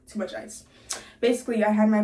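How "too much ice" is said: softer whispered echo; unvoiced trailing mutter. Real, not acted. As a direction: breathe the words out.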